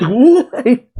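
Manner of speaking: high-pitched, drawn-out mock shriek of disbelief; Beast Pirates' shock. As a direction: squeal the question, voice leaping up. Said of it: "All the Beast Pirates are just like".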